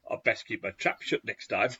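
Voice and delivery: rough imitation of a Geordie; attempted Geordie accent. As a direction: try a Geordie accent, not very convincingly. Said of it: "my best Geordie accent".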